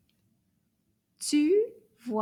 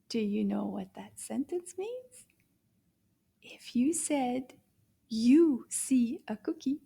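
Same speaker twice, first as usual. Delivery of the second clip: whispered question; hushed, voiceless explaining. Shown as a demonstration. Teacher whispers the meaning to the children.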